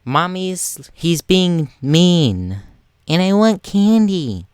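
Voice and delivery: high, slow, whiny fake crying kid; fake sobbing child. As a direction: whine like a bratty child faking tears. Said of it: "doing these really fake sobs".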